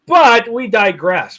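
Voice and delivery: drawn out theatrical aside; dramatic aside. Acted.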